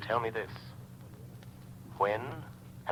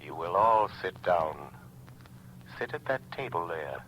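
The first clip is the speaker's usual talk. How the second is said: commanding; 4 dB louder than usual. Acted. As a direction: lay down the law. Shadow commands the group.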